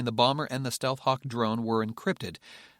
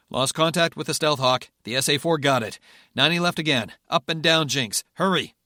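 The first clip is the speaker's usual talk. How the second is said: urgent shouting; 4 semitones higher, 6 dB louder than usual. Acted. Urgent orders under fire.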